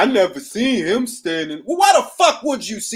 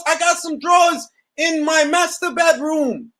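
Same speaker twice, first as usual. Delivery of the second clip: exasperated retort; 6 semitones higher than usual. Real, not acted. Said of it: "shouted retort to haters".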